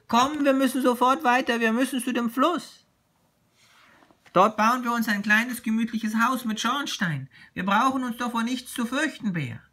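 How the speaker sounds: high, excited little tiger voice; little tiger, eager. Acted. Little tiger urging Bear on to the river, eager. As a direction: urge your friend onward in a high voice.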